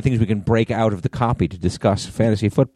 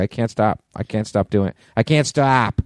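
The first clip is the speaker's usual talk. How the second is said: lightly put-on Boston accent, building; hammy Boston "stop" at the end. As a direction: retell it in playful Boston vowels. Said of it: "I can't stop with the Boston accent".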